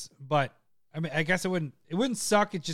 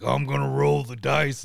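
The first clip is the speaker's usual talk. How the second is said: manly voice; 5 semitones lower than usual. Shown as a demonstration. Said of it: "Why didn't it sound, like, manly?".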